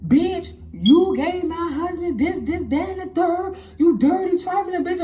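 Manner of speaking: imitating an outraged wife, voice way up; angry confrontation. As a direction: lay into her as the furious wife. Wife confronts the other woman.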